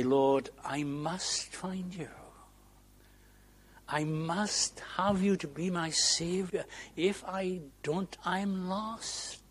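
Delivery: earnest prayer, rising as it goes on; earnest plea. Acted. Preacher voicing a seeker's prayer to the Lord, earnest plea. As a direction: plead with growing urgency. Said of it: "We need to be earnest".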